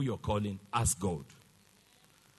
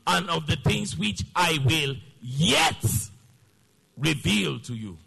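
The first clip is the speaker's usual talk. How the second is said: slow, phrase-by-phrase scripture reading; drawn-out, deliberate read-along; 4 dB louder, slower than usual. Shown as a demonstration. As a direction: lead the congregation through it slowly, pausing between phrases. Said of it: "Now read with me slowly".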